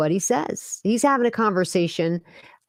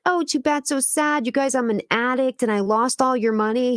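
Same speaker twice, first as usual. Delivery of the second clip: mocking sing-song; 5 semitones higher than usual. Mock quote of scammer.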